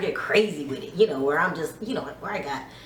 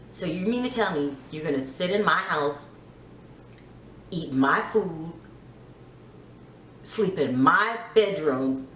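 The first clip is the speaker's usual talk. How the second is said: calm; 2 semitones lower than usual. Retold or imitated. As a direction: keep it calm and measured. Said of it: "calm, before I snapped".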